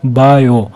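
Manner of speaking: बायो drawn out as two sounds, बा-यो; split into syllables. Shown as a demonstration. Teacher showing two vowel sounds, बायो split as बा-यो. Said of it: "दो, दो sounds है".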